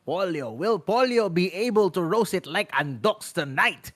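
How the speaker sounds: hammed-up mock Italian accent; light put-on Italian accent; fake Italian accent. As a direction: roll the name like a playful fake Italian. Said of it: "my fake Italian accent is literally showing".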